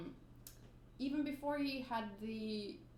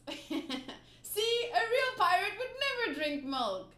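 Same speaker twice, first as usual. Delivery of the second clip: mocking tease; 7 semitones higher, 4 dB louder, slower than usual. Pirates teasing the boy.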